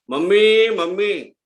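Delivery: yelling Mummy from the kitchen, high and loud; calling out. Retold or imitated. Girl calls her mother from the kitchen, loud and high. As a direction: shout for mother from another room. અંદરથી બૂમ પાડી.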